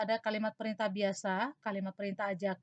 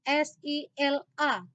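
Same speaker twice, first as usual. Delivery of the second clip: slow, letter by letter; spelling out letters; 4 semitones higher, 3 dB louder, slower than usual. Shown as a demonstration. Teacher spelling the word for students, slow and deliberate. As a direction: spell each letter clearly and slowly. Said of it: "menuliskan kata mempersilakan".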